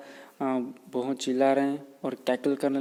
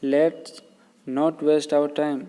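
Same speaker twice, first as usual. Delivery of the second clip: mild parrot call; 2 semitones higher, much slower than usual. Retold or imitated. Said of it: "वो बोल रहा है कि".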